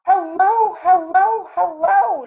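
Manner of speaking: high, loud calling hellos; shouted greeting. A narrator's reading. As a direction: call out hello to the otters. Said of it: "shouted Jitterbug".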